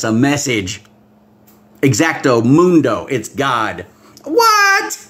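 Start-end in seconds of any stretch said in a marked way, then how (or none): 4.2-5.0 surprised what. Real, not acted. Preacher startled by a new post, surprised. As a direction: jump in pitch at the news.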